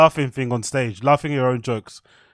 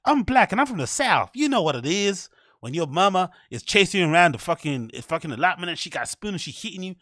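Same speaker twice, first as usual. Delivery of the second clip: mock Southern Black American accent, pitched up; hacky stand-up caricature; 3 semitones higher than usual. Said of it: "there's a hacky black voice".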